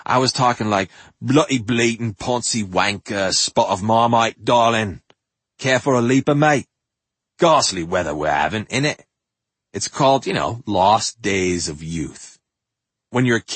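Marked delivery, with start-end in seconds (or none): 1.2-9.0 mock Cockney accent. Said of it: "lapsed into a Cockney accent".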